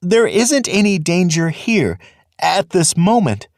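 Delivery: high, frightened voice; frightened seer warning his brother; fearful foreboding. Acted. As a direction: dread rising as he speaks, pitched high. Fiver foresees coming doom.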